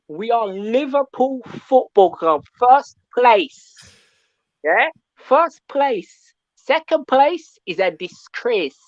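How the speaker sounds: put-on light Jamaican accent, proud chant; a touch of Jamaican patois for the club. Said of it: "You're getting that Jamaican accent out of me".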